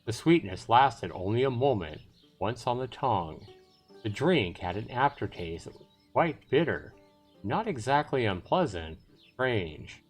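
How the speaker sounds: measured storytelling voice; story narration. Acted. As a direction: narrate it with deliberate pauses. Reads the story narration aloud.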